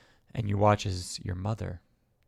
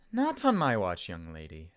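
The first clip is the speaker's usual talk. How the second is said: mock-stern motherly refusal; scolding mother. Mother holding her daughter tighter, playful firm scolding.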